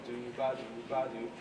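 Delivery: "ba" leaning slightly out of "do, ba"; connected do-ba with "ba" naturally accented; natural stress on ba. Shown as a demonstration. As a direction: let "ba" carry the swing accent. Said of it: "The ba, you hear it".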